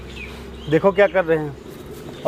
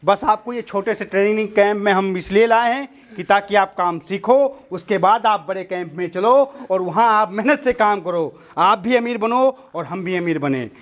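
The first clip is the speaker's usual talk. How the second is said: gang boss's speech. Acted. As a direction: lay out the terms to captives like an orator. Boss addresses the captives. (सरगना का भाषणनुमा अंदाज़)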